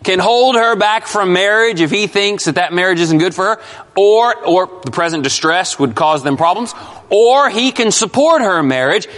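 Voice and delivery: OR punched at each option; deliberate emphasis on HOLD and SUPPORT; great emphasis. Real, not acted. Preacher laying out the father's choices, with great emphasis. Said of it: "say this slowly and with great emphasis".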